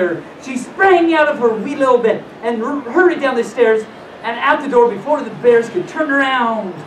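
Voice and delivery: put-on animated read-aloud to children; lilting storyteller with swooping pitch; storybook reading. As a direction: read it like a bedtime fairy tale.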